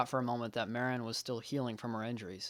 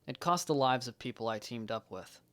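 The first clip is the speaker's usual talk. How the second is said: dejected regret; 6 dB quieter than usual. Acted. Regrets a failed, costly mission.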